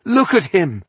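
high, loud command; urging. A narrator's reading. Rebel urging her fellow conspirators, insistent. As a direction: make them look. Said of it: "she urged the conspirators".

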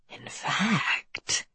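soft, breathy menacing whisper. Acted. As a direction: lean in and whisper it. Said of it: "he whispered".

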